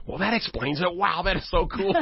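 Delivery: high-pitched, wowed exclamation; delighted realisation. Retold or imitated. Young woman learns about being born again, excited. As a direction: imitate a newcomer when it all clicks.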